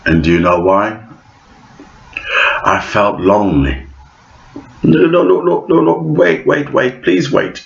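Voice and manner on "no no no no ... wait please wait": mock pleading. Vlogger begs viewers not to feel sorry, hammed-up high plea.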